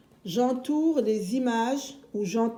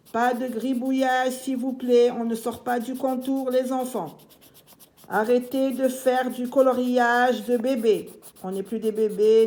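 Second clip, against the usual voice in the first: slightly raised, insistent classroom voice; louder, no-nonsense instruction to small children; firm teacher admonishment; 3 semitones higher, 4 dB louder than usual. Pretend. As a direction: tell the children off, mildly but firmly. Teacher admonishes children about messy colouring.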